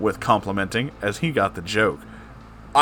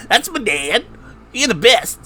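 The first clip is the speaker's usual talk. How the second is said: put-on much higher, louder, wooden child voice; 12 semitones higher, 5 dB louder than usual. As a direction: stiff and flat like a wooden puppet. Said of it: "said Connor with wooden".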